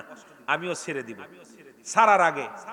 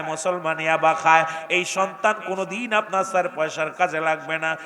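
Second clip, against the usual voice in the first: normal talking voice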